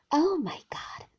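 anguished gasp. Acted. Maxim realizing.

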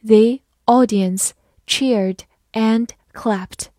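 slow, careful reading for learners; slow teacher model reading; slowly. Shown as a demonstration. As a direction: stretch each word out slowly. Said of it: "好，慢慢来读。".

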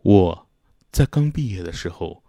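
slow, low, solemn demonstration; mock-serious. Shown as a demonstration. Showing listeners how serious they can sound, mock-solemn. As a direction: put on a scarily proper, serious voice. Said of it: "但其实我正起来也是很吓人的，比如说".

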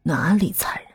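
lightly savouring the accusation; amused questioning. A narrator's reading. Master answering an accusation of cruelty, mildly amused. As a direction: toy with the question, understated. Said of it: "宅主玩味似的问道".

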